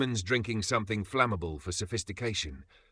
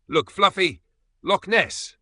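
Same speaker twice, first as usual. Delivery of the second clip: high, loud, bright excited shout; bright excited call; 10 semitones higher, 10 dB louder, slower than usual. A narrator's reading. Bright excited call. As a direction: Emma thrilled to show the cat the loch. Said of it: "she said brightly".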